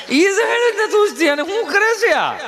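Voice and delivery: high, slow incredulous whine; mock exasperation. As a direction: marvel at the doting mother. Mocking disbelief at mother.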